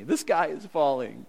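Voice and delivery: lightly voiced fretful Naomi; a hint of a panicky Naomi; mock panic. Preacher mimics Naomi's despair, lightly voiced mock panic. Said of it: "Naomi going like".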